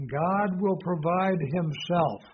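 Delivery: slow, leaning on "himself" at the end; slow and deliberate, pressing "himself"; stress on himself. Shown as a demonstration. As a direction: land the weight on "himself", drawn out. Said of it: "Put the emphasis upon himself".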